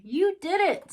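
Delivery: high, loud cheer; Timothy cheering Dumbo's flight, high and loud. A narrator's reading. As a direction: burst out in triumph. Timothy celebrating.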